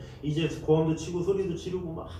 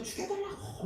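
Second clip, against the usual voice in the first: much higher, soft cry; high plea; 9 dB quieter than usual. Retold or imitated. Preacher voicing the condemned man, much higher. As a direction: squeak out the plea. Pleading quote.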